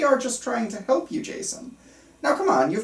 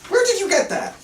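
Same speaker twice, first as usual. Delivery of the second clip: alarmed; 10 semitones higher, 4 dB louder than usual. Acted. Doctor sees patient's gun.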